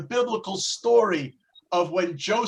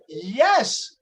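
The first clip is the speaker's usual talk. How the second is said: higher, eager and proud, as a delighted creator; God proudly unveiling what you could be; excited God; 5 semitones higher than usual. Acted. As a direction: beam with pride, showing off a masterpiece. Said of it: "And God, all excited, says".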